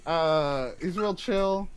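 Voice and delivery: put-on Brooklyn accent. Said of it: "This is my Brooklyn accent".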